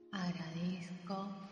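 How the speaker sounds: voz lejana y muy tenue; eco de fondo. Acted. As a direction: repite la afirmación como un eco distante. Eco de la palabra anterior. (eco suave y lejano)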